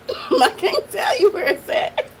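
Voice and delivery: words squeezed through laughter; real laughter. Real, not acted. Reactor tells viewers about the video, laughing. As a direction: try to get it out while laughing.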